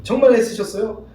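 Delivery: slow, tender thanks with 정말 leaned on. Shown as a demonstration. Wife thanking her tired husband, slow and tender. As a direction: savour each word of the thanks. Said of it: "뭐라고 칭찬해야 돼요?".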